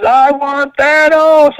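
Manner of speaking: slow, high mock-heroic growl of a line; imitating Thor. Retelling Thor's arrival to Mitch, slow mock-heroic. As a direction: ham up Thor's big battle cry, stretched out. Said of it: "he goes".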